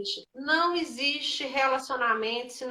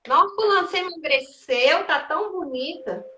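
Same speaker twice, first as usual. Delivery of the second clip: gushing compliment. Acted. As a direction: gush over them. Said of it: "e fala assim".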